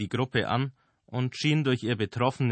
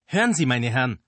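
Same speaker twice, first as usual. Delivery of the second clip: trembling voice; 4 semitones higher, 7 dB louder than usual. A narrator's reading. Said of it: "mit bebender Stimme".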